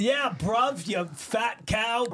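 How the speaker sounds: hammed-up English insult, drawn out; English accent. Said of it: "very good English accent".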